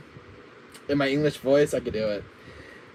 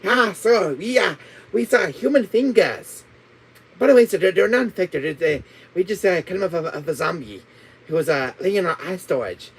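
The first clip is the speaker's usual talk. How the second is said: put-on Chinese accent. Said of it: "do a Chinese accent".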